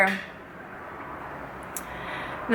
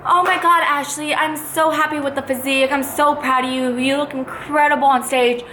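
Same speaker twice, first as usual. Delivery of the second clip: gushing judge; 5 semitones higher than usual. Retold or imitated. Head judge flatters the competitor before stage, gushing. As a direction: gush like a fake-friendly judge.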